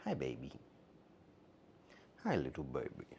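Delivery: hushed low tender greeting; soft low pet talk. Real, not acted. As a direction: murmur gently to the cat.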